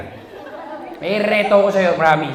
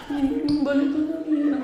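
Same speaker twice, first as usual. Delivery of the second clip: put-on higher, soft babyish coo; babyish girlfriend; 5 semitones higher, 7 dB quieter, slower than usual. Girlfriend coaxing her boyfriend back, soft and babyish. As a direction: coax him back in baby talk. More girlfriend baby talk.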